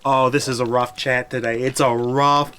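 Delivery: exasperated. Real, not acted. Chat spams six seven.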